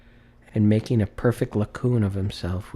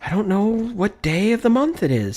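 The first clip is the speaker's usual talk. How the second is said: giddy confusion; 11 semitones higher, 4 dB louder than usual. A narrator's reading. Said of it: "said Scrooge".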